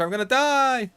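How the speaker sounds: real in-game panic; panicked yell. Real, not acted. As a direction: yell it as death closes in.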